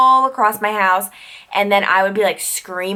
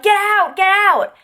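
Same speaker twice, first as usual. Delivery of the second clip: high, mildly raised panicked yell; mock scream; 12 semitones higher, 3 dB louder, slower than usual. Retelling her sleepwalking to viewers, high-pitched mock scream. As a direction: imitate a sleep-terror scream, held back. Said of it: "so I start screaming".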